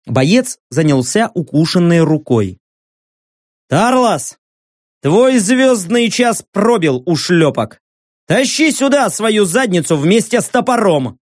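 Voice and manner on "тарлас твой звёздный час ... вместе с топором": commanding shout. Acted. Orc commander yelling at squad.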